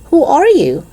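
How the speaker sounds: high, loud demand; stern teacher. A narrator's reading. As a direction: repeat it impatiently.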